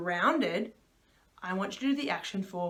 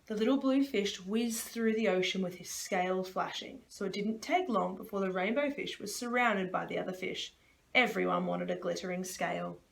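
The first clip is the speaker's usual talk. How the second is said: storybook read-aloud voice; reading to children. Acted. Reads the book to children.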